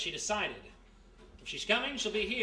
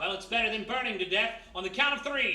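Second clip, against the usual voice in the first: loud, raised desperate count; desperate resolve; 4 semitones higher, 6 dB louder than usual. Acted. Jimmy believes the hotel burns, loud and desperate. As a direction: steel himself to jump. About to jump from ledge.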